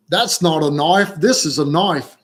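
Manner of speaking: put-on Australian accent with swooping pitch; Paul Hogan. Quoting Crocodile Dundee to the viewers, imitated Australian accent. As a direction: quote a movie line in mock Aussie accent. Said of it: "Just think Paul Hogan".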